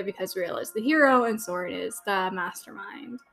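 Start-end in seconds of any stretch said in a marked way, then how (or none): 1.2-3.2 softly whispered aside; conspiratorial whisper to the viewers. Real, not acted. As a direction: breathe the line out with no voice. Aside while naming the episode.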